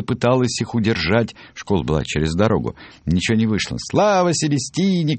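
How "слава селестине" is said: little mice cheering. A narrator's reading. Mouse children cheer as they run after the crowd, high cry. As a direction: pitch it way up, like excited little ones. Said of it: "кричали мышата".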